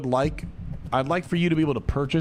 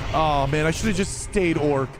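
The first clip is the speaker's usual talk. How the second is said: whiny player; 3 semitones higher than usual. Retold or imitated.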